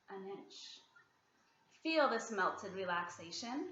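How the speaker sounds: unhurried body-scan guiding with long pauses; calm relaxation-exercise voice, softening as it goes; guided meditation. Real, not acted. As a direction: gently talk them into relaxing, leaving long silences.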